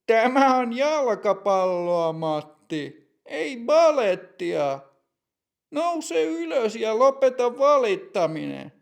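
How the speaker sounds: high, loud, scornful brush-off; mocking put-down. Teppo telling Matti to stop whining, scornful. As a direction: belittle his whining. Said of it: "Teppo sanoo Matille".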